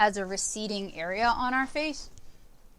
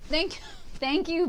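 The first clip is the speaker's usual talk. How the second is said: laughing through thanks; 7 semitones higher, 3 dB louder than usual. Real, not acted. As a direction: giggle while thanking them. Thanking a chat viewer.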